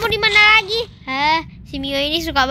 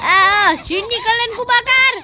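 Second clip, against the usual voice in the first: mock threat; 5 semitones higher, slower than usual. Threatening to burn them.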